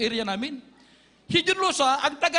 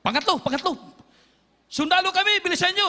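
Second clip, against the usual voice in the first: soldiers calling much higher and louder; retold shout; 6 semitones higher, 3 dB louder than usual. Soldiers call the third time for the group to come out, loud urgent shout. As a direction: shout for them to hurry out. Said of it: "sumigaw na".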